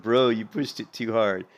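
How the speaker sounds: slow, drawn-out chat quote; lightly voiced rogue. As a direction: lay the line out slowly as the rogue. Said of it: "He's like".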